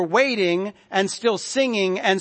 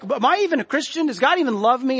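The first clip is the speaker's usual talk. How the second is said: higher-pitched, quicker anxious questioning; voiced inner doubt, pitched up; mock self-doubt; 5 semitones higher, faster than usual. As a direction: lightly act out a worried believer doubting themselves. Voicing a doubting believer's thoughts.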